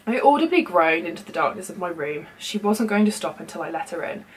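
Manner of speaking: measured first-person story reading; lightly dramatised internet story narration. A narrator's reading. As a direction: read a creepy story aloud, conversationally. Reads a creepy story aloud.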